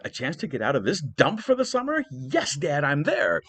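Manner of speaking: put-on a bored teen seizing escape; eager Paris. Paris to his father, fast eager teen. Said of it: "And Paris said".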